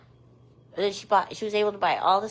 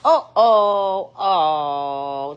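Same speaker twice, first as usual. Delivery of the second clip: loud, drawn-out oh of dismay; real alarm, sinking in pitch; 3 semitones lower, 8 dB louder, much slower than usual. Real, not acted. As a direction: cry out as the pet falls. Pet has just fallen.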